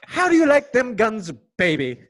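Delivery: put-on a failed stab at an Aussie accent; clumsy Australian accent, not really Australian; attempted Australian accent. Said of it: "What of that was Australian?".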